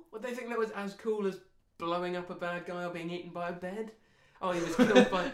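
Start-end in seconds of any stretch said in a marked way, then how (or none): 4.4-5.3 mock awed voice. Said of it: "Would they think that was cool?".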